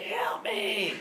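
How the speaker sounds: high, drawn-out mock plea; mock yell for help. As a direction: imitate a pleading cry for help. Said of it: "he's yelling at me".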